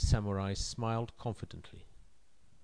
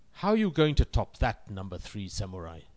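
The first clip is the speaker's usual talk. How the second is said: commanding emperor voice. Acted. Emperor challenges third samurai.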